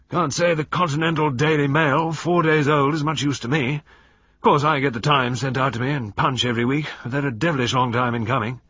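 loud, high, hearty colonial grumble; blustering old general. A narrator's reading. Old General grumbling to fellow guests, loud and hearty. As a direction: play a retired general holding forth.

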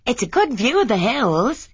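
put-on a young wife leaning out, pleased; eager young wife. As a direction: show off the view. Lily admiring view.

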